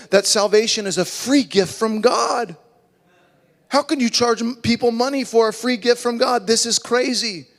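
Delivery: high, fired-up outrage; indignant preaching. Real, not acted. Preacher indignant at paid salvation.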